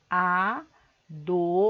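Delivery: "adolescente" broken into a, do, les, cen, te with long pauses; syllable by syllable. Shown as a demonstration. Teacher having pupils count syllables, "adolescente" fully separated. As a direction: say "adolescente" as five isolated, drawn-out syllables. Shows word split into syllables.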